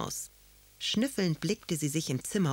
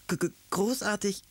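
stuttered first sound, higher voice; stammering; 5 semitones higher than usual. A narrator's reading. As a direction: stumble on the opening consonant in amazement. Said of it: "stammelte Karlchen".

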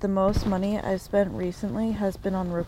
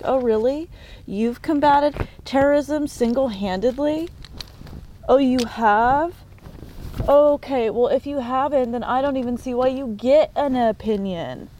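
higher, mocking disbelief; sarcastic retort; 4 semitones higher than usual. Mocking a critic online, sarcastic and higher. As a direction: needle them, mock surprise. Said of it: "And it's like".

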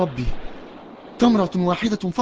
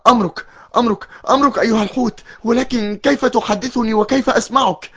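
a bit higher, tearful and trembling; frightened obedience; 4 semitones higher than usual. Acted. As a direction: stammer yes to the whale in fear. Obeys the talking whale. (طاعة خائفة بصوت باكٍ)

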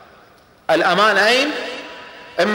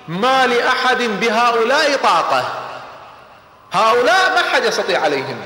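awed exclaim; 6 semitones higher than usual. Acted. Abu Sufyan awed by the army.

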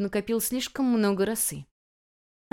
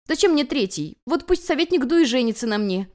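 demanding; 5 semitones higher, 4 dB louder than usual. A narrator's reading. Guest demands the advisor.

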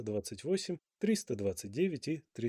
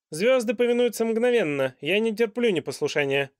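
loud, high royal reprimand; a pompous king lecturing on etiquette; stern king; 8 semitones higher, 8 dB louder than usual. A narrator's reading. King's voice.

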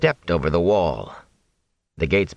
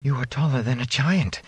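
breathless; 5 semitones higher, 3 dB quieter than usual. Acted. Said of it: "Egwene said breathlessly".

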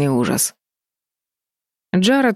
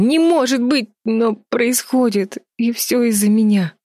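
higher, anguished, slowing on the middle words; despairing cry; 7 semitones higher than usual. A narrator's reading. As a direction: blame yourself in a raw cry. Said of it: "хотелось крикнуть Бетти".

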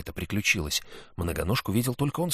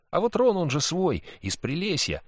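put-on boy's voice; 9 semitones higher than usual. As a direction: play a cheeky lying boy. Sid reasoning to himself.

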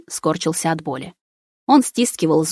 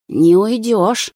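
slow menacing threat; 4 semitones higher, 4 dB louder, much slower than usual. Acted. Possessed friend threatens narrator.

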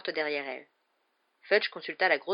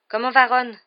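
anxious question; 7 semitones higher, 11 dB louder than usual. A narrator's reading. Worried children ask after friend.

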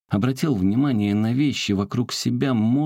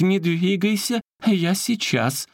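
high, slow and urgent; urgent call; 12 semitones higher, slower than usual. Acted. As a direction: call out to hold on. Улитка спешит на помощь. (высокий призыв)

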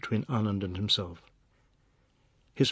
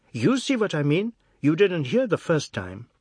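needling; 5 semitones higher, 5 dB louder than usual. A narrator's reading. Quarrel continues.

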